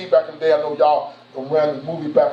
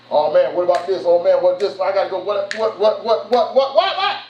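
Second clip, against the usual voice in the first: mock panic. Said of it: "That's me".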